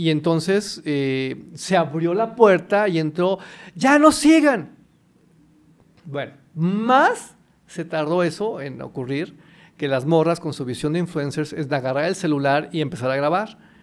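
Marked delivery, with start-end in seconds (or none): 3.8-4.8 very loud, very high, shrill, frantic, unrestrained yell. Retelling the producer bursting in through the door: imitating a frantic shout. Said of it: "los gritos del productor ya eran como desatados".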